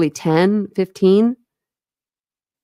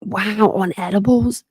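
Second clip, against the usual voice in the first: mock surprise; 2 semitones higher, slower than usual. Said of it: "Yeah, I was like".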